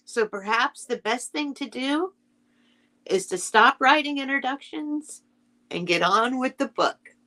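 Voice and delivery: calm storybook reading; story narration. A narrator's reading. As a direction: read it like a bedtime story to children. Keeps reading the introduction.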